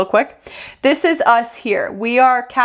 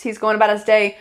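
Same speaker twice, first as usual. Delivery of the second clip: usual speaking voice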